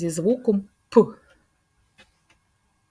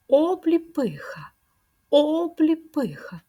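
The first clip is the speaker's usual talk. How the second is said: whispered demo word; 8 semitones higher, slower than usual. Shown as a demonstration. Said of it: "Чи підходить нам це слово?".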